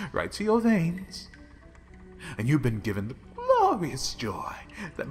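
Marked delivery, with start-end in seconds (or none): 0.1-1.3 louder repeat. Acted.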